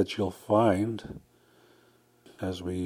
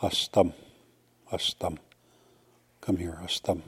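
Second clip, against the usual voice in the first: whispered call; 3 semitones lower, 5 dB quieter than usual. Shown as a demonstration. Calling someone softly.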